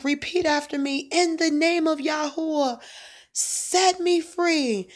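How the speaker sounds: high, drawn-out command to repeat; commanding prayer. Retold or imitated. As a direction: lead him through the prayer, slowly at the end. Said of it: "I was like".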